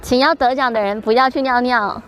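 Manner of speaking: ordinary talk, nothing marked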